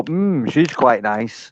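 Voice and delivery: slow, lecherous mock musing; drawn-out creepy appraisal; mock leering. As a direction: slowly savour it like a creep. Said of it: "look at your cousin and go".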